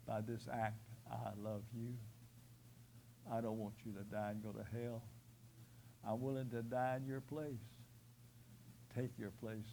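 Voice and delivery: soft, low voice of the dying Christ; quiet tender Jesus. Acted. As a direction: plead gently, lovingly. Voicing dying Jesus's words.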